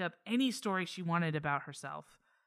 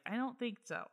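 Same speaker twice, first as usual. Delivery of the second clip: mock dismissive; 5 semitones higher, 4 dB quieter than usual. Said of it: "and was just like".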